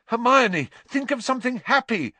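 high, loud desperate yell. A narrator's reading. Harry yelling at Hermione amid dementors, loud yell. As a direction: shout it at her in panic. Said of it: "Harry yelled".

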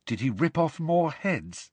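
put-on high, queasy girl's question; squeamish. A narrator's reading. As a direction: ask it dreading the answer, high-voiced. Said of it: "sounding squeamish".

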